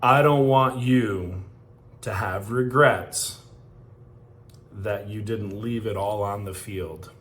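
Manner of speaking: a coach pushing seniors to give everything; coach's fired-up plea. Retold or imitated. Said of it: "He goes".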